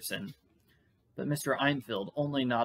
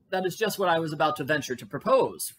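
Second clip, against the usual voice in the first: higher, louder, smiling reply; 5 semitones higher, 7 dB louder than usual. A narrator's reading. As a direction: agree readily, with a smile in the voice. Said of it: "returned the doctor with a smile".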